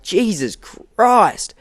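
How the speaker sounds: loud, high, long-drawn retold disbelief; shocked exclamation. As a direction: stretch it out high and loud, aghast. Group's shocked reaction to the outburst.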